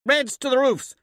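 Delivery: high, loud order; bellow. A narrator's reading. Commander sending Reds to the roofs, bellowing. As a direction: shout it up to the snipers. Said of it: "I bellow".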